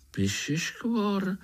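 high, slow astonished question; surprised interruption. A narrator's reading. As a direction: blurt it in amazement. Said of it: "skočil jí Pája do řeči". (překvapené skočení do řeči)

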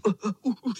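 high strained grunts under a weight; straining grunts. A narrator's reading. Bottom boy groaning under the tower, strained grunts. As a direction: grunt as if crushed. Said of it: "šeptl spodní".

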